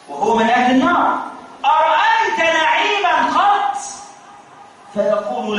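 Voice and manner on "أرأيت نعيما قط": questioning voice. A narrator's reading. Angel questions the richest man.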